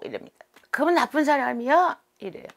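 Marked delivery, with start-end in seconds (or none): 0.7-1.9 put-on high, loud childish question; child spirit voice. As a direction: ask like a sulky little child. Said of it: "얼라 소리가 나옵니다".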